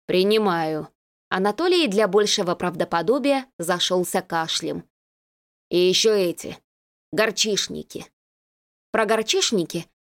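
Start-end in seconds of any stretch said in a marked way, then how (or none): 0.1-0.9 hoarse. Acted. Disguised sick voice. 5.7-8.1 hoarse feigned-illness mumble; faked hoarse voice. Disguised sick voice.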